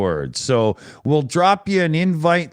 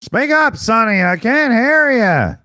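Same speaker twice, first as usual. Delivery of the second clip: through an ear trumpet; 8 semitones higher, 4 dB louder than usual. Pretend. Mock deaf old man.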